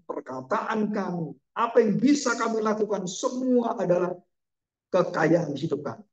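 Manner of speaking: earnest, measured prayer voice. Acted. Pastor leads the congregation in a thankful, earnest closing prayer. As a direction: lift it up to God with the congregation.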